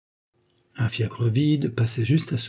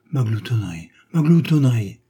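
grumbling; 4 dB louder than usual. A narrator's reading. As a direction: repeat the accusation with growing indignation. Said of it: "grommela le mari". (grommellement indigné, qui monte)

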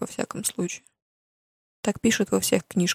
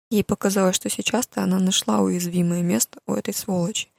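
ordinary delivery

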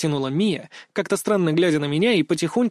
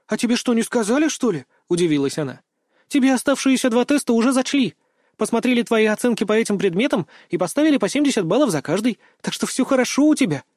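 put-on higher, animated girl voice; surprised girl; 6 semitones higher than usual. A narrator's reading. Girl telling patient his tests counted, lively. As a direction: tell him the good news brightly.

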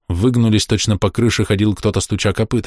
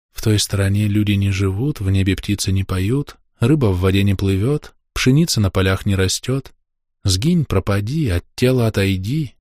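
murmured charm. Acted. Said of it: "Слова журчали".

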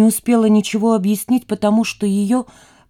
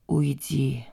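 weary, softer repeat; tired; 4 semitones lower, 8 dB quieter than usual. A narrator's reading. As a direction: say it worn out, quietly. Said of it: "устало повторила Лиза". (устало, тише)

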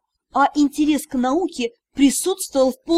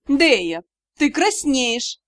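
sly teasing; much slower than usual. Acted. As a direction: tease her slyly, drawn out. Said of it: "коварно сообщили мне".

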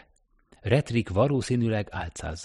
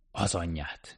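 softer grumbling curse; low grumbled oath; 5 dB quieter than usual. Acted. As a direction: mutter it in amazement. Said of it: "dörmögte az egyikük".

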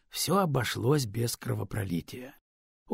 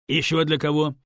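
louder, demanding question; 7 dB louder than usual. Acted. Stone demands who else would benefit, louder. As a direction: press him for an answer. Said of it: "требовательно спросил Камень".

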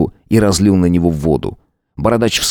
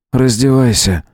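cold command; 5 semitones higher than usual. A narrator's reading. Howard repeats the order.

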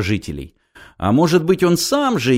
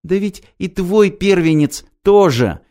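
higher, gleeful jab; holy fool; 8 semitones higher than usual. A narrator's reading. Holy fool remembering Ilya's lost son. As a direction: deliver it like a cruel revelation. Tyutya strikes Ilya's wound.

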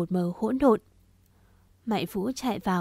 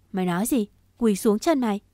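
louder, affronted echo question; indignant disbelief; 4 dB louder, faster than usual. Acted. Đạt is told to kneel before Vũ, indignant. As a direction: throw the demand back in disbelief.

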